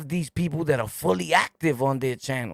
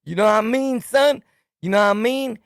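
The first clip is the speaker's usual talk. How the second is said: higher mocking imitation of slang; making fun; 5 semitones higher, 4 dB louder than usual. White COs in hallway mimicking inmates, making fun. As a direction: mimic the inmates to ridicule them. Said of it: "he's making fun of you".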